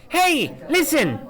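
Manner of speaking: high, slow squeaky fairy call; a tiny fairy calling out for attention; Navi voice. Acted. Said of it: "It looks like Navi from The Legend of Zelda".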